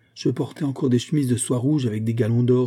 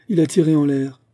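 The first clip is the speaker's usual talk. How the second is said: higher, louder exclamation; repeated cry; 5 semitones higher, 6 dB louder than usual. A narrator's reading. Duellists repeat their discovery to each other, crying out. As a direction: echo the cry loudly. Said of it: "répétèrent Constantin et Batourov".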